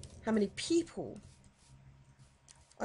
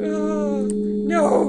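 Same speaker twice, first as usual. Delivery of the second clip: loud, raised cry; alarmed dismay; 6 semitones higher, 6 dB louder than usual. Real, not acted. Dismay at game danger.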